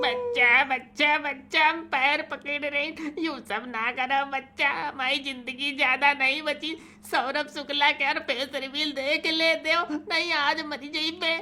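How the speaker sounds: pleading. Acted. Begging at feet.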